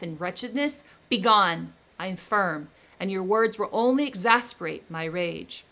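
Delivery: firm, loud defiance; angry refusal. Acted. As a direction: stand your ground in anger. Victor furiously rejects the creature.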